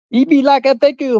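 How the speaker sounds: high-pitched cartoon Indian accent; Apu. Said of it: "Y'all remember Apu?".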